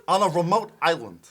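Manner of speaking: hammed-up announcer; mock ad voice. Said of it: "You didn't talk as you".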